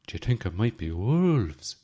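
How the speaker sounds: broad Midlands Irish shepherd voice; big culty accent. Retold or imitated. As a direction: ham up the rural Irish accent, half-jokingly. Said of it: "In my big culty accent".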